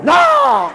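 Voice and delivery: mimicking shriek. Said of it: "Il parle avec la même intonation".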